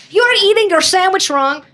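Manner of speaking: lightly voiced sassy cat; cat character voice. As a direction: play the fussy cat correcting him. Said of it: "this gay cat is like".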